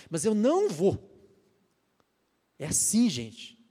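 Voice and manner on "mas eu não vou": slow, loud, high resolute no; resolute refusal. Pretend. Believer's firm side overruling temptation, slow loud resolute refusal. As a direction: put your foot down slowly. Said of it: "brigar com você".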